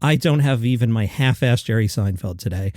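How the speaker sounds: lost voice, hoarse and strained. Real, not acted. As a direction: croak through with no voice. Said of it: "I have no voice".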